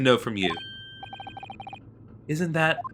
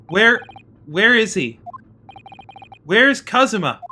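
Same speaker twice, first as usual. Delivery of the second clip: frantic asking; 5 semitones higher than usual. Acted. Frantic search for friend.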